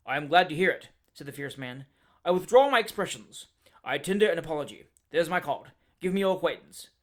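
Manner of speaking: a hot-tempered man working himself up to a shout; fierce Dowler tirade. Acted. Dowler blustering.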